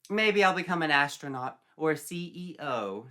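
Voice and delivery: a naive dreamer chatting; hopeful Sandy. Acted.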